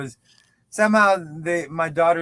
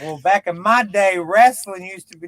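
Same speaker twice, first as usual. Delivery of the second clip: put-on old curmudgeon; 3 semitones higher, 5 dB louder than usual. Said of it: "I'm the old curmudgeon".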